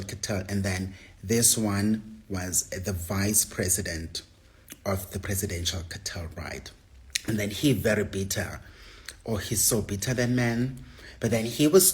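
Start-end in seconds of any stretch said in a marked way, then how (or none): 4.9-6.7 hushed gossip whisper. Real, not acted. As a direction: lean in and whisper the secret. Secret gossip, dangerous cartel.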